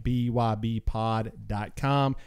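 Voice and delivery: slow it down so they catch it; slow and spelled out. Shown as a demonstration. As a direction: spell each letter slowly. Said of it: "You need to go to B Y B pod dot com".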